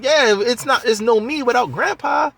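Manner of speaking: pitched far up, insistent arguing; pleading grown man. Retold or imitated. Ray insisting Grandpa must come, high and pleading. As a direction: press the point over and over. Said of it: "we're like".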